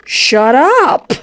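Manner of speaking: loud high "Shut up!" yell; shouting. Real, not acted. Streamer shouts back.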